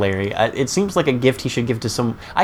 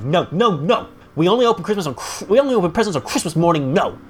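mock tantrum, higher and fast; Larry; 5 semitones higher than usual. Larry refusing to open presents early, mock tantrum. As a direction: refuse petulantly in quick, pitched-up bursts. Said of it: "he's throwing his tantrum".

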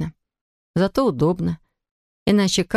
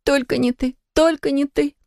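crying out; 9 semitones higher than usual. A narrator's reading. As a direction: cry it out, building. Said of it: "выкрикивала она". (выкрикивая всё громче)

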